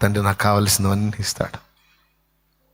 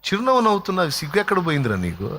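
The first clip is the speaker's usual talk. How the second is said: exasperated rebuke; 6 semitones higher than usual. Acted. Brother rebuking smiling servant.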